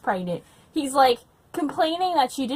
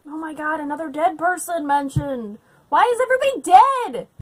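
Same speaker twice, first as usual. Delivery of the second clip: high, loud disbelieving cry; louder, higher outcry of disbelief; exasperated outburst; 4 semitones higher, 5 dB louder than usual. Real, not acted. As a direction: throw the question up in exasperation. Exasperated at the book's deaths.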